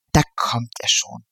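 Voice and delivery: low hushed whisper; whispered aside. Acted. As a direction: breathe it out as a secret. Whispered announcement of arrival.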